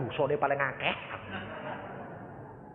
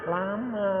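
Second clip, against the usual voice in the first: matter-of-fact answer; 6 semitones higher than usual. Acted. Pastor answers questioner about the wait, matter-of-fact reply. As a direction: answer the outcry without shouting.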